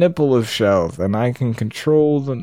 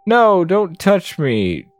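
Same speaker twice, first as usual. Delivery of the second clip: protesting captive; 6 semitones higher, slower than usual. Acted. Voices captive protesting being touched.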